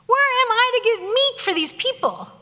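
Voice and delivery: exasperated yelling. Retold or imitated. Stressed Moses yelling at God about the people, mock exasperated. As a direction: complain in exasperation, pitch climbing. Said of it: "he yells at God".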